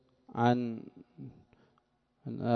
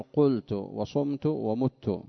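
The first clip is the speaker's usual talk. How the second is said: slow, word by word; slow dictation; much slower than usual. Shown as a demonstration. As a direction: lay each form out slowly. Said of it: "فتقول".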